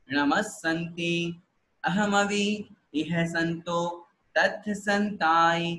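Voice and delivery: measured devotional chant, word by word; steady, reverent liturgical recitation; slow prayer recitation. Shown as a demonstration. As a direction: lead the group through it slowly. Teacher leads group prayer recitation.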